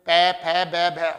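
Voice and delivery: पै, फै, बै, भै with both lips pressed together; lips touching. Shown as a demonstration. Teacher to students, lips together for पै फै बै भै. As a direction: close the lips firmly on each sound. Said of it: "होठ आपस में स्पर्श जरूर करेंगे".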